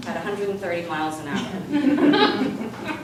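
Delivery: slowed, laughing through it. Real, not acted. Laughing as she pictures hurtling down. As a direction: savour the absurd speed with a laugh.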